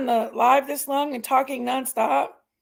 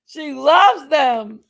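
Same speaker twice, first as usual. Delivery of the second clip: drawn-out; 3 semitones higher, 6 dB louder, much slower than usual. Real, not acted. Teasing about dog and candy.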